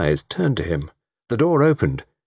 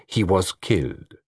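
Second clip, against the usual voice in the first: slow, firm and unbending; Poirot stubbornly holding his ground; slower than usual. A narrator's reading. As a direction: insist slowly on "he was killed". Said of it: "said Poirot stubbornly".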